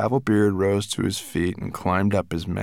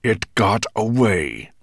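growl; 2 semitones higher, 5 dB louder, slower than usual. Acted. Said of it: "growled Nettlebrand".

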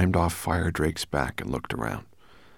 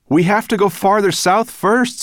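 high, loud insistence; calling out; 9 dB louder than usual. A narrator's reading. Ben correcting Sorrel's route, calling out. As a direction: shout the correction across the wind. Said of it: "he called".

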